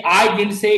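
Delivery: "I" stressed at the start; emphatic "I", rest of phrase lighter. Shown as a demonstration. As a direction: put the weight on "I". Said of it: "it means it is I".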